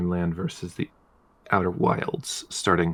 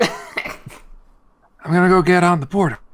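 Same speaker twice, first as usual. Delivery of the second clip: higher, slow, drawn-out put-on voice; 11 semitones higher, 7 dB louder, slower than usual. Podcaster doing a hammed-up impression in a slow, high voice. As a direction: stretch it out slowly in a high silly voice.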